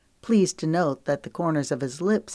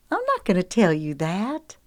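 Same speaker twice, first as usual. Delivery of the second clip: protesting; 4 semitones higher than usual. Acted. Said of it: "she protested".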